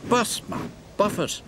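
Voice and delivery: breathless high gasps; gasping. Acted. Emily pulls heavy coaches, gasping. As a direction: strain and gasp pulling a heavy load. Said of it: "she gasped".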